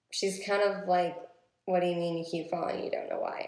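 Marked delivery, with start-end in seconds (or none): 1.6-3.4 hushed worried mom; whispering. Retold or imitated.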